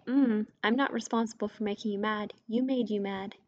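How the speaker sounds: lightly voiced know-it-all "You made you mad"; a touch of smug lecturing, "You made you mad" dismissive; mock smug retort. What not to tell others, a hint of smugness. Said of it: "Don't say".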